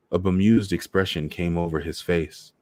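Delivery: ordinary delivery, nothing marked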